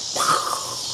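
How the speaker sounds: long, soft exhale, acting dumbfounded; imitated stunned sigh. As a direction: blow out air as if stunned. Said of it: "And he was like".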